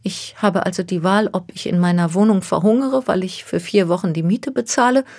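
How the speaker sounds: anxious young woman, lightly voiced. Miss Takahashi describes her plight.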